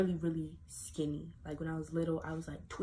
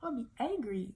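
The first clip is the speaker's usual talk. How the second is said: sad retold plea; 8 semitones higher than usual. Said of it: "that made me sad".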